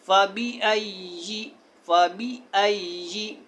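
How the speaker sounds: फ़बी अय्यी with short clear i vowels; don't stretch the i; correct फ़बी अय्यी. Shown as a demonstration. Teacher gives the right reading of फ़बी अय्यी. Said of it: "फ़ाबी अय्यी पढ़ना है".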